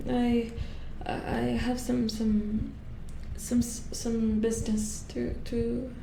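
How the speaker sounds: hesitant, halting deference; tentative, apologetic false starts; nervous stammering. Acted. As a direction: stumble over your words to a superior. Nervously phoning a superior.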